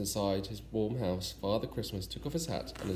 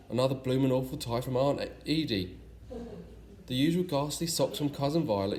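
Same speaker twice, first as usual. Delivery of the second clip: grumbling; 4 semitones higher than usual. Acted. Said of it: "he grumbled".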